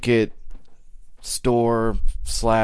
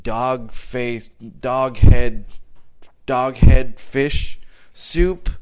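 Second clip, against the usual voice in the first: mock fancy name; 3 dB louder, much slower than usual. Mocking silly beer names.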